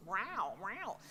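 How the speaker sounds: two comical cat yowls; mock meow with a swooping vowel; cat singing. Shown as a demonstration. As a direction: mimic a cat singing ROW. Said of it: "I call it cat singing".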